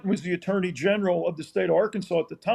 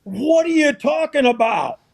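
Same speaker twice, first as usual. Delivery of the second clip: startled retort; 6 semitones higher, 3 dB louder than usual. Retold or imitated. Coach startled by official.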